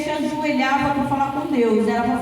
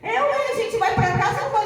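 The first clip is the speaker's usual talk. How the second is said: laughing; 7 semitones higher than usual. Pretend. Joking reaction to the cat.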